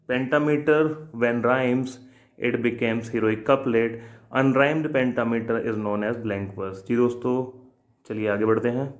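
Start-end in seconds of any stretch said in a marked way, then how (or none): 0.1-6.8 slow, deliberate note-taking pace; slow dictation. Shown as a demonstration. Teacher dictating a poetry rule to exam students slowly.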